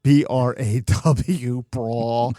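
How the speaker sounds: slowly spelled out, then "brawl" with aw; deliberate New York "brawl". Shown as a demonstration. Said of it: "bra becomes brawl".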